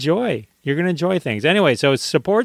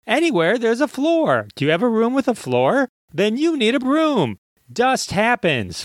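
mock ad read; 3 semitones higher than usual. Host parodies a sponsor spot for brooms, a hammed-up ad read. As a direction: sell brooms like a cheesy TV ad.

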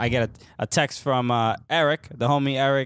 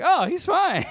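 laughing relief; slower than usual. Retold or imitated. Crowd relieved, laughing at fan.

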